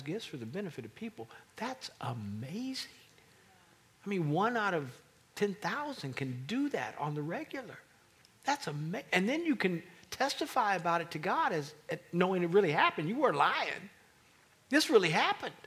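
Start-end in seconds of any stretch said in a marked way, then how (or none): 4.0-15.5 building from firm to loud, higher testimony; rising fervent preaching. Real, not acted. Preacher to congregation, building to a loud peak. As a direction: preach it louder and higher with each line.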